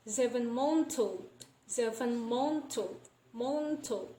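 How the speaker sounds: "zeven monto" with the words' sounds run together; "zeven monto" linked, deliberately demonstrated; progressive assimilation. Shown as a demonstration. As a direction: say "monto" as one joined word. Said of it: "this is progressive assimilation".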